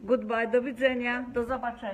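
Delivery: a big farewell in Polish, with a lift on the first words; loud goodbye. Real, not acted. Mother asked by her son to sign off in Polish, loud and cheery. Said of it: "Mum, say goodbye in Polish".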